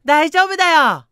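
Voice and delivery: put-on high, loud, slow chirpy girl; forced cheerful girl saying she's fine; girl's voice. Voicing the crying girl. (無理に明るい女の子の声)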